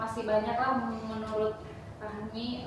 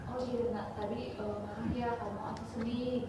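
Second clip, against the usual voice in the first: put-on gentle advice to child; 7 dB quieter than usual. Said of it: "kita masuk nasihatinnya".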